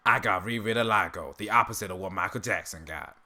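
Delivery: lightly voiced cartoon character; a tentative go at a character voice; Uncle Ruckus impression. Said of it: "that's kind of how he does it".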